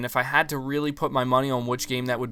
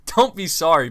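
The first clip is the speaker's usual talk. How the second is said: laughing at own slip; 4 semitones higher, 7 dB louder than usual. Real, not acted. Fumbles a quote, laughs at slip.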